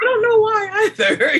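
1 laughing. Retold or imitated. Laughing reply to doula.

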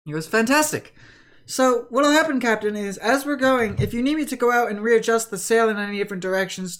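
lightly voiced helpful deckhand; eager sailor briefing his captain. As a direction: report keenly to the captain. Plays Ben briefing the captain.

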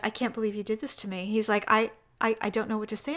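soft imitation of a stunned husband; mock speechless hurt. Husband learns wife watched the finale, quietly mock-stunned. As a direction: say it quietly, as if betrayed. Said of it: "I'm speechless".

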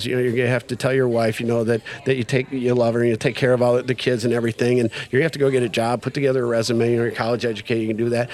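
lightly voiced matter-of-fact counselor; calm advice. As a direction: reel off sensible advice evenly. Sponsor calmly lists advice.

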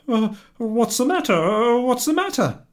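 startled by her tears; worried husband. Acted.

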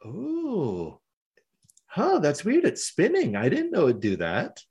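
a hint of puzzled villainess, pitch swooping; Hex. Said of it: "She's like".

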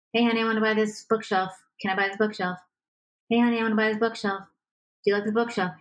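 even, repetitive request like a broken record; flat robot tone. Shown as a demonstration. Coach demonstrating the broken record request to partner, in an even robot tone. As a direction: keep asking in the same tone. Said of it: "robot tone".

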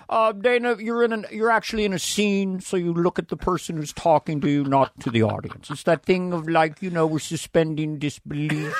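put-on voice giving a patient note; lightly voiced boss impression. Boss correcting a new sketch performer, lightly put-on voice. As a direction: imitate a boss explaining the basics.

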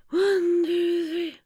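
high whispered counting. Shown as a demonstration. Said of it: "breathe in for three and out for three".

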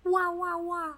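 high mock amazement; playful wow. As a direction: gasp it out, wide-eyed.

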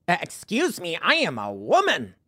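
mock squeaky offended customer; Pat. Imaginary customer correcting a server who said sir, mock squeaky indignation. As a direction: imitate an affronted customer with swooping pitch. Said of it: "has a squeaky voice and talks like this".

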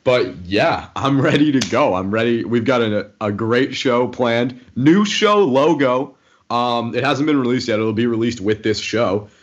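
talking round fresh stitches; careful mouth after oral surgery; after wisdom teeth. Real, not acted. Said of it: "I've got stitches in my mouth".

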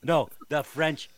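Bernie Parent impression. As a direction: play the old goalie, slow and jokey. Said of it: "doing a lot more Bernie Perrant".

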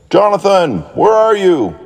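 calling out. A narrator's reading. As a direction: call for a lost brother. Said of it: "yelled Daniel".

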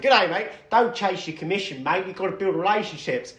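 lightly put-on Australian accent; a quick, loose Aussie impression. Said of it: "in his Australian accent".

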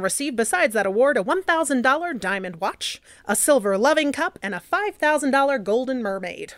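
lightly voiced 1920s newsreel announcer; a hint of an old radio newsreader; old-timey voice. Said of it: "old-timey voice".

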